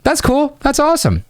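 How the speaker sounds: very high, overblown that's cool; mock gushing to tease her; exaggerated enthusiasm. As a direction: ham up the fake excitement. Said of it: "I'm exaggerating".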